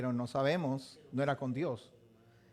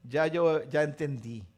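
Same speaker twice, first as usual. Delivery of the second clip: calm fatherly God; 3 semitones lower than usual. Retold or imitated. God answering Jacob.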